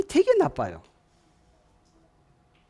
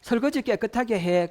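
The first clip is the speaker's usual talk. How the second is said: higher-pitched mock order; acted instruction; 6 semitones higher than usual. One spouse telling the other to wash dishes, nagging. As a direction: voice a nagging household command.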